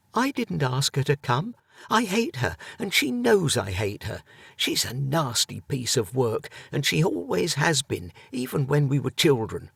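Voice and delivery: a ghost sniping at her hated sister; spiteful Helga. Acted. Helga bitter about her sister.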